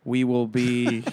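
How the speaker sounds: slow, drawn-out mock threat; deliberate, ominous put-on menace; mock villain. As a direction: play a stalker villain, very slowly. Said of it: "basically the villain from a Netflix series".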